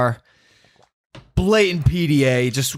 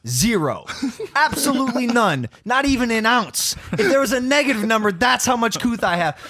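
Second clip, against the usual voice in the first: deadpan calm; 8 semitones higher than usual. Retold or imitated. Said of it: "doesn't break character".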